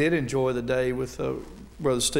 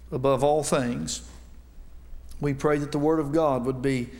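earnest, measured prayer before the sermon; pulpit prayer. Acted. Preacher praying aloud over the congregation in an earnest, measured voice.

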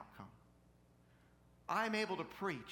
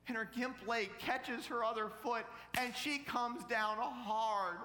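dramatic preaching; 7 semitones higher, 5 dB louder, slower than usual. A narrator's reading. Preacher narrates the fall.

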